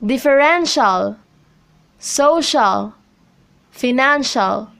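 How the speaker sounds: differENtial, SOcial, fiNANcial, stress just before the ending; stress before suffix. Shown as a demonstration. Teacher reads examples differential, social, financial, each stressed before the suffix. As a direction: lean on the syllable before -cial or -tial in differential, social, financial. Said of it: "on a syllable right before the suffix".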